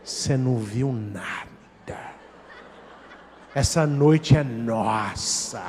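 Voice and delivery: slow, low sultry tease with a laugh; mock seductive woman. Preacher voices the seductress, slow low sultry tease. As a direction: purr it slowly, teasing. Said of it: "ela vai falar com ele".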